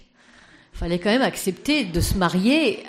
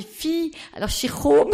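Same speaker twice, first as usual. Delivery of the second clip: put-on higher, slower Danish accent; 9 semitones higher, 5 dB louder than usual. Speaker imitating Madame Lejeune's Danish accent for the audience. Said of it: "on parle avec son accent".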